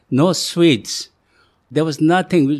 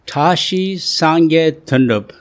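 ringmaster; 3 semitones higher, 5 dB louder than usual. Acted. Grand welcome opening his story.

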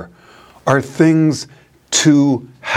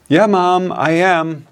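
put-on higher, laughing boy's voice pleading innocence; butter up mom with a giggle; lightly voiced kid sweet-talking his mother to dodge trouble; 5 semitones higher than usual. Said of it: "Trying to get out of trouble".

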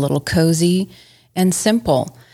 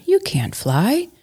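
slow, higher gently teasing mother; mother bear; 9 semitones higher, slower than usual. Acted. Mother Bear answering her cub, slow and amused. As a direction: let her say it slowly, amused. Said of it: "said Mother Bear".

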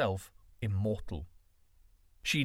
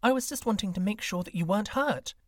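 white snake reassuring; 8 semitones higher, 3 dB louder, faster than usual. A narrator's reading.

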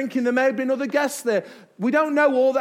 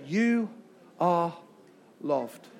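quiet and falling, each word apart; soft, dropping; 7 semitones lower, 6 dB quieter, much slower than usual. Shown as a demonstration. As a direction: let it sink in softly. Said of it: "Say with meaning".

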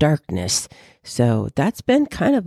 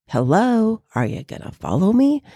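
puppy voice; 7 semitones higher than usual. Acted. Voicing the puppy's thoughts.

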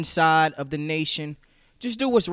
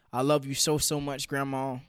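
choked up; 2 semitones lower, 3 dB quieter than usual. Real, not acted. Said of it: "try not to get choke up".

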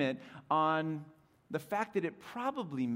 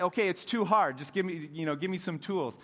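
pleading student; 3 semitones higher, 5 dB louder than usual. Retold or imitated. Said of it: "I was like".

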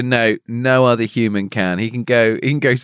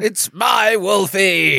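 higher, slow, drawn-out cry; hammed-up protest; mock shout; 4 semitones higher, much slower than usual. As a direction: wail it in mock outrage. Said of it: "he shouted".

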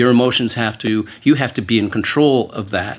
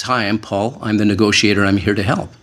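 sincere tone. Shown as a demonstration. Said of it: "in that tone of voice, that sincere tone of voice".

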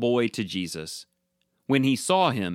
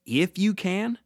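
higher questioning echo, rising at the end; incredulous echo; 7 semitones higher than usual. A narrator's reading. Jesus answering the doubting father, incredulous echo. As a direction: throw it back as a disbelieving question. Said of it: "You can see Jesus looking at him saying".

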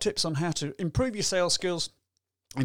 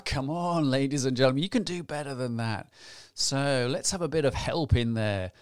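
ordinary talk

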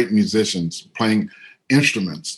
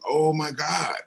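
put-on excited kid; 7 semitones higher, 4 dB quieter, slower than usual. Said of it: "And I got really excited".

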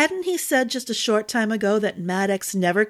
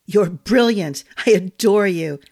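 delighted; 5 dB louder than usual. Acted. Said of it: "he grinned".

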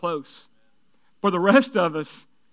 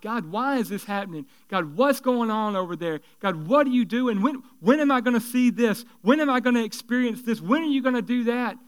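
lightly voiced plea to God, a bit higher; mild pleading cry; 3 semitones higher than usual. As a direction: ask God these as a half-acted plea. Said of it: "we're crying out to God".

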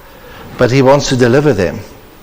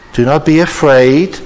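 reassuring, said as God's voice; 2 semitones higher than usual. Acted. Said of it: "And when he says".

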